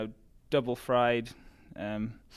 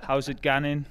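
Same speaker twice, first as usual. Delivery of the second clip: broad Geordie greeting, a bit louder; Geordie dialect; 2 semitones higher, 5 dB louder than usual. Shown as a demonstration. Runner giving an example of home dialect, broad Geordie. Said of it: "an example would be".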